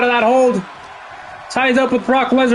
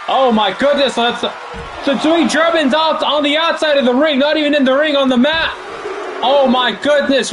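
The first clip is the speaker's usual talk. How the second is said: shocked; 3 semitones higher than usual. Real, not acted. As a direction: gasp it out in disbelief. Post-match attack shocks commentator.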